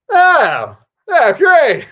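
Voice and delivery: very high, loud, hammed-up enthusiasm; over-eager relief. Nervous director answers unexpected praise, over-eager relief. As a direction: blurt it out way up high.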